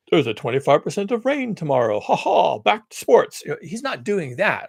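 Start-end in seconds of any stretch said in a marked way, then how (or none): 0.1-3.4 mock upbeat newscaster, louder at the end; cheesy TV weatherman. Mocking traditional weathermen to viewers, chipper forecaster voice. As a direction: ham up a chipper forecast that tosses back to sports. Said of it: "traditional weather like".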